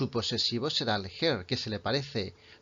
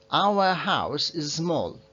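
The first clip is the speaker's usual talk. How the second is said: slow careful; 2 semitones higher, much slower than usual. Shown as a demonstration. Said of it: "cuando estamos hablando muy rápido, igual suena distinto".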